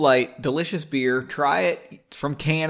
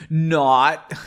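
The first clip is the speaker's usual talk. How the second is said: loud, punched one-word retort; mock cool guy; 2 semitones higher, 6 dB louder than usual. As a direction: hit it hard like a would-be cool guy. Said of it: "That's what a cool guy would say".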